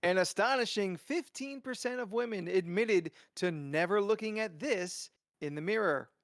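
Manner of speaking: light announcer voice, big build; fighting game announcer. Pretend. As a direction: read it like a game-show host. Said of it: "announcer voice back on".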